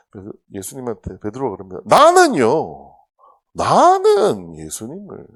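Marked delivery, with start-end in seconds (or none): 1.9-5.3 loud, slow, puffed-up declaration; boastful Peter. Retold or imitated. Peter boasting to Jesus, slow loud pride. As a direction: stretch it out proudly and loud.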